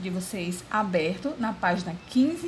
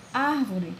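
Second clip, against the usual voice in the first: "árvore" with the first syllable raised; stress on ÁR. Shown as a demonstration. Teacher showing where the tonic syllable falls, stress on "ár" in "árvore". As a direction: lean on the "ár" of "árvore". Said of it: "maior no ar".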